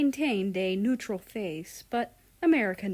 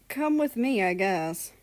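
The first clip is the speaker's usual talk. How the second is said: salty; 4 dB louder than usual. Acted. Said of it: "He was still pretty salty about it".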